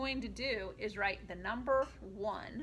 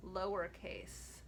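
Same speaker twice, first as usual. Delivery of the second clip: low voice for lowercase; 4 semitones lower, slower than usual. Shown as a demonstration. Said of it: "uppercase and lowercase chant".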